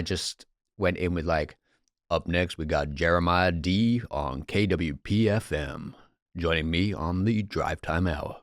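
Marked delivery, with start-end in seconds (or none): 2.1-8.4 lightly voiced radio host, slow and smooth; a hint of a drive-time DJ introducing the next song. Retelling a DJ bit done for his girlfriend, mild radio host voice. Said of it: "being that guy who was hosting a radio".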